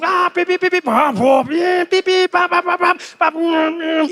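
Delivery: high beep beep imitation of horns; mock car hooting. Drivers hooting in chaotic traffic, high mimicked beeps. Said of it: "Everyone's hooting".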